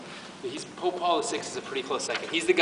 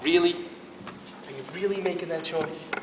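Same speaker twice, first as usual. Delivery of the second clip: mock God; 3 dB louder, slower than usual. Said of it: "God's gonna go".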